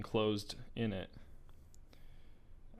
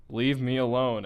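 put-on sobbing girl yelling; 2 semitones higher, 7 dB louder than usual. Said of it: "it was now sobbing uncontrollably".

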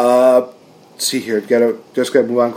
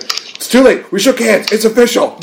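smug Jericho; 9 semitones higher than usual. Retold or imitated. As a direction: gloat like a sly heel sealing the deal. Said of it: "He's like".

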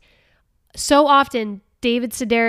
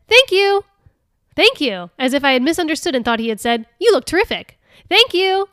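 much higher, louder, sugary fake thanks; mock gratitude; 6 semitones higher, 7 dB louder than usual. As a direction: gush thanks as if it were a compliment. Reading Sedaris's mock-grateful elf quote.

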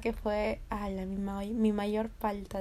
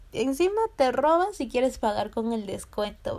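louder, incredulous mock telling-off; indignant scolding; 3 semitones higher, 5 dB louder than usual. Guard rebuking thief who wants the discount, louder indignant scolding. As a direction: scold with hammed-up outrage.

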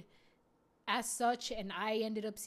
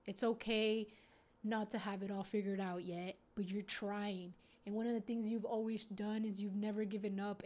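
put-on tender talk to inner child. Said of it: "I'll talk to her and I'll be like".

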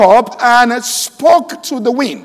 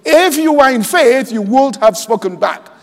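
"If you were in faith" pitched up and stressed; emphatic repeat; 3 semitones higher than usual. Shown as a demonstration. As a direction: lift "If you were in faith", then land firmly on "spoken back". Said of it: "Let me say it again".

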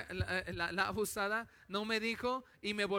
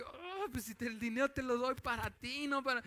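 queja aguda y contenida, imitando su propia reacción; reacción de papá contrariado; 4 semitones higher than usual. Retold or imitated. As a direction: protesta como papá incrédulo, sin alzar el volumen. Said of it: "Y yo estaba así que". (papá contrariado, en tono de queja)

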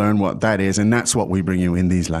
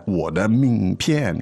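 我的名片 slow, each group drawn out evenly; rhythmic phrasing; slower than usual. Shown as a demonstration. Teacher showing learners the rhythm, 我的名片 said slowly. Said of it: "get the, the rhythm of it".

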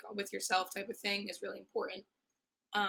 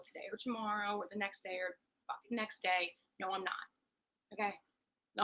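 aggressive rant. Real, not acted. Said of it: "got a little aggressive there".

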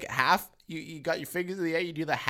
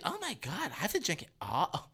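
imitated birthday girl; 2 semitones higher, 5 dB quieter than usual. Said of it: "And she's like".

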